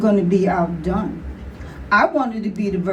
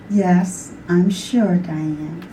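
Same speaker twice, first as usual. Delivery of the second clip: low, even reply; unruffled mother; 5 semitones lower, much slower than usual. Acted. Ma reassures her shouting daughter, unruffled mother. Ma answers shouting child evenly.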